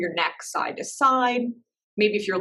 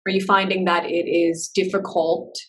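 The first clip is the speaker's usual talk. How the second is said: measured meditation-teacher voice with long pauses; guided meditation; 3 semitones lower than usual. Real, not acted. Teacher settling a class into breath and body, guided meditation. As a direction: guide them gently inward, leaving space between phrases.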